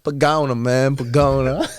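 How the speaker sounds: high, loud mock-pleading Spanish guy; little Spanish guy. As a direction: imitate a small Spanish guy, drawn out, half laughing. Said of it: "little Spanish guy".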